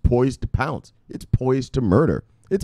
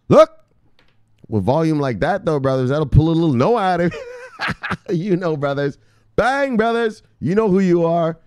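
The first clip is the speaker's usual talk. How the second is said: preacher; 6 semitones higher than usual. Acted. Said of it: "brought out the preacher".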